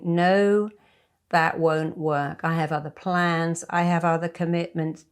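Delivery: steady, certain refusal, no apology; firm no. Shown as a demonstration. Friend wants kids minded, firm clear no. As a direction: say no to a friend asking to babysit, with conviction. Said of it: "So you have to get used to saying".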